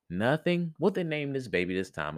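high-pitched incredulous question; mild disbelief. Acted. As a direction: question the cat, mildly taken aback. Mouse questions cat in disbelief.

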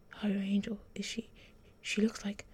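breathless, awed whisper; shocked whisper. Acted. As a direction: whisper it in disbelief.

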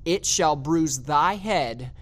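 "It shall bruise thy head" said slowly, word by word; emphatic quotation. Shown as a demonstration. Preacher stresses the prophecy's final words, slow and emphatic. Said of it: "I want to emphasize the words".

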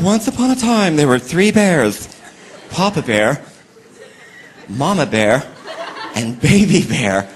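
slow storybook reading; mom reading to the womb. Retold or imitated. Mother reading to her unborn baby, slow storybook tone. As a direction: read slowly to the unborn baby. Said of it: "You see this mom".

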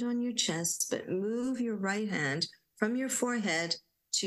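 unhurried guided breathing voice; guided meditation. Acted. Leading listeners in breathing and affirmations, gentle meditation voice.

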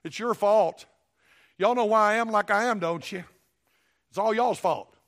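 loud, accusing whine of a blamer; a loud, hammed-up finger-pointing complaint; mock blaming. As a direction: point the finger at everyone else, loudly. Mocking people who blame others.

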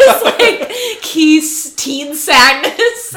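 put-on high, laughing teen parody; mocking teen voice. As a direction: send up the moody teen. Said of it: "I thought for a minute you were describing the movie".

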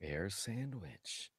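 funny voice. Pretend. Echoing the name in a funny voice.

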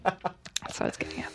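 soft unvoiced whisper. Real, not acted. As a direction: breathe it as an aside. Repeats the phrase, then whispers it.

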